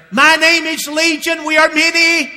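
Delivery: slow, loud and high, legion of demons. Acted. Demons answering Jesus, loud and slow. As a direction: declare it slowly like many voices in one.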